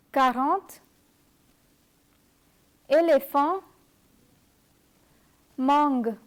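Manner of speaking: Quarante, éléphant, mangue in French, with a nasal AN; French nasal pronunciation. Shown as a demonstration. Teacher gives new words, French nasal pronunciation of Quarante, éléphant, mangue. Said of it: "give you a few new words".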